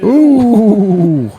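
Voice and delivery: sudden high gasp of surprise; surprised ooh. Real, not acted. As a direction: react as the ball misses. A missed shot in play.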